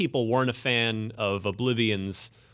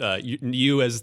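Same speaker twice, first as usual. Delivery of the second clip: ordinary talk, nothing marked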